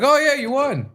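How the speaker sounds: high, bright-eyed retold cheer; excited announcement. Telling partner about the winning bet, high excited retelling. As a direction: break the good news way up high.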